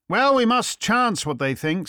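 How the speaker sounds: a mild note of helplessness; helpless. A narrator's reading. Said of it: "said Fritz helplessly".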